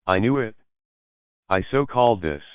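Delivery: gleeful little crow of victory; triumphant excitement. A narrator's reading. Roommate doing a happy dance at the engagement, excitedly triumphant. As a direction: claim the prediction with mild triumph.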